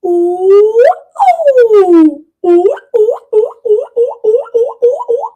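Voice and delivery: high, quick chains of monkey ooh; rapid monkey hoots. Shown as a demonstration. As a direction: chatter like an excited monkey. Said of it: "Let's do it together".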